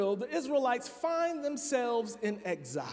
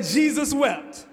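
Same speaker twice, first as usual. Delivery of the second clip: loud, slow, drawn out "Jesus wept."; mock proud recital; 3 semitones higher, 6 dB louder, slower than usual. Preacher retelling the one person with the shortest verse, loud slow mock pride. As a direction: plant it slowly like a big achievement. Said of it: "They say".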